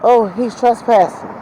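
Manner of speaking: high, slow mocking whine; mocking quote. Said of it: "I hear this bitch saying".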